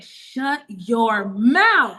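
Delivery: very slow, drawn-out amazed shut your mouth; stunned disbelief. Retold or imitated. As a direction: stretch every word in happy shock.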